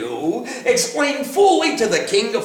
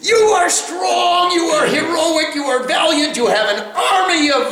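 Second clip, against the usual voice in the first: grand praise; 5 semitones higher than usual. Acted.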